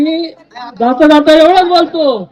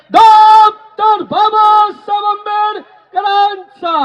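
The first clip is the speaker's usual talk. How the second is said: slogan shouting; 2 semitones higher than usual. Real, not acted. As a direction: call out the slogan for the crowd to answer. Leading slogans at a rally.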